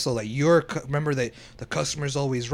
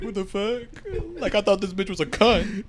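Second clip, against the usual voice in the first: laughing mock outrage; 5 semitones higher than usual. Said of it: "I would've been like".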